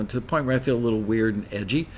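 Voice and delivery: jittery, rushed over-caffeinated talk; too much caffeine. Real, not acted. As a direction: talk fast, wired on coffee. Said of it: "I'm uncomfortably wired on caffeine".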